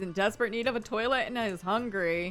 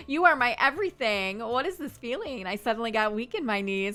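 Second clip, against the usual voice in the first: mock passionate. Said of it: "now she's passionate".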